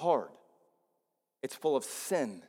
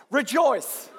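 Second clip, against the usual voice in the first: Rejoice said higher and louder with joy; joyful; 10 semitones higher, 6 dB louder than usual. Shown as a demonstration. Pastor asking the church to say it with joy, joyful Rejoice. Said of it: "say it with, like, joy in your voice".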